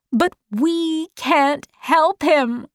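high, slow, distressed protest; distressed cry. A narrator's reading. Meg argues with Mrs Whatsit, distressed high cry. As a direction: cry it out in dismay, stretched. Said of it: "cried Meg".

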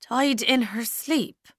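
a numb slow question; stunned repeat. Acted. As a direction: repeat it as if it can't be true. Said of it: "Ailish repeated".

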